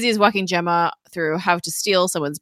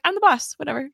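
offhand boss; 8 semitones higher, faster than usual. Retold or imitated. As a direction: lightly imitate breezily pulling rank. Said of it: "I love how she says that too".

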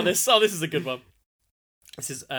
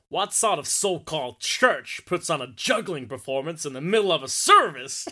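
mock American accent. Reading a Los Angeles commenter, in a put-on American accent. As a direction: build up the question in an American accent. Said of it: "read them in the accents, I think".

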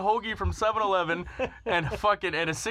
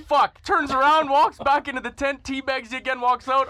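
louder punchline; 5 semitones higher, 5 dB louder than usual. Real, not acted. Punchline told loud.

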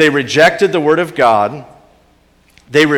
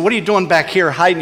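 fast, harsh accusing question; condemning voice; 5 semitones higher, 3 dB louder, much faster than usual. Pretend. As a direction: demand it like a judge catching him hiding. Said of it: "he could have condemned him".

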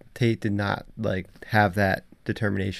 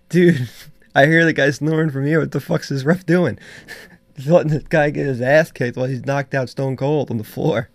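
raised, incredulous retelling of a friend's outburst; louder and higher, mock indignation at the ref; imitating outraged buddy; 4 semitones higher, 4 dB louder than usual. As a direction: act out a fed-up fight fan. Retelling buddy's outraged reaction to referee.

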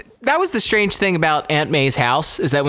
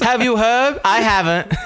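high-pitched gossipy granny; squeaky old lady chatter; 5 semitones higher than usual. Retold or imitated. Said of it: "an old lady voice".

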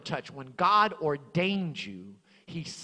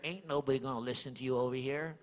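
hint of a sly devil, quick; mild mock devil taunt; devil's whisper; 3 semitones lower, faster than usual. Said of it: "the devil will whisper in my ear".

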